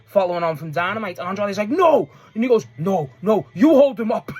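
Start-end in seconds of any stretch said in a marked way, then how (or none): 1.7-2.1 mock shouted refusal. Acted refusal in match recap. 2.8-4.3 mock arguing shout. Acted argument between wrestlers.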